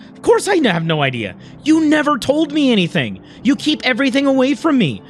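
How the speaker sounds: hurt, accusing, pitch lifting; bitter retort. Acted. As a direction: argue back with a touch of anger. Acted bitter retort in quarrel.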